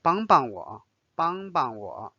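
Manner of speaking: second 帮 in 帮帮我 light and toneless; 帮帮我 with an unstressed, neutral-tone second 帮; neutral second syllable. Shown as a demonstration. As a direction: stress the first 帮, let the second go light. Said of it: "read a little bit lighter".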